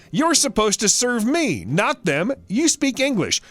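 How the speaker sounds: mock an entitled shopper talking down; entitled customer. Entitled customer demands service.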